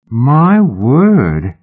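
an envious, delighted gasp of a phrase; impressed exclamation. A narrator's reading. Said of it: "and smiled".

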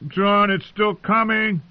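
high, drawn-out call of alarm; alarmed warning. A narrator's reading. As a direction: slowly call out a worried warning. Comrade warns of approaching threat.

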